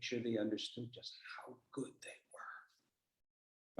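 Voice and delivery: slow, hushed whisper. Shown as a demonstration. Telling one person how good they were, slow whisper. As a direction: let it drop to a secret whisper.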